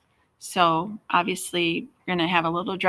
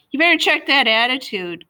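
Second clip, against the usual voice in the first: firm, raised warning voice; stern warning; 6 semitones higher, 7 dB louder than usual. A narrator's reading. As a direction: warn him sharply. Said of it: "Carter warned".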